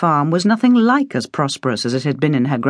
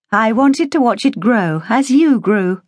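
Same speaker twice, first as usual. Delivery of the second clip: tender, higher mother's voice; a hint of a tender mother; 7 semitones higher than usual. A narrator's reading. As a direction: speak lovingly to your child. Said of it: "she had told her".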